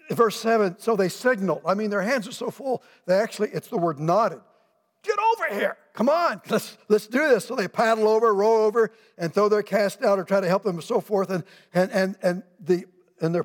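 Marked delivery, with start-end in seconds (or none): 5.0-7.5 much higher excited call across the water. Acted. Peter calling partners in the other boat, excited shout. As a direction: hail the other boat urgently.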